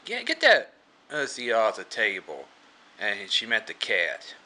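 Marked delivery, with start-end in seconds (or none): 0.0-2.5 raised-pitch mock scolding from a manager; lightly acted indignant command; acted manager's order. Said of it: "and the manager goes".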